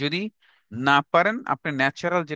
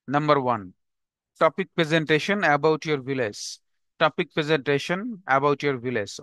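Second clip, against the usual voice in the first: slow dictation; much slower than usual. Shown as a demonstration. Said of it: "dictating homework slowly".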